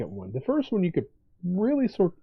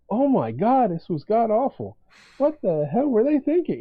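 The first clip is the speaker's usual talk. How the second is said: higher, louder, appalled outburst; mock disgust; 6 semitones higher, 4 dB louder than usual. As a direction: play up the horror at a bad book. Imagined appalled reader.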